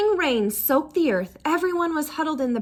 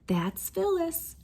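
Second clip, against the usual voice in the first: resigned; 5 semitones higher, 4 dB quieter, slower than usual. A narrator's reading. Mother's resigned refrain.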